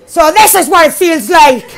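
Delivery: voiced and amused, a chuckle through it; laughing. Real, not acted. Gamer repeating the line to viewers, laughing.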